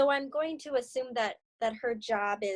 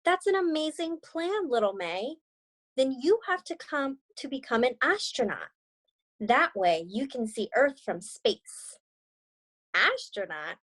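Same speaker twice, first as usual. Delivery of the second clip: gentle read-aloud storytelling; story narration. Acted. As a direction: read it like a children's picture book. Reads story with character dialogue.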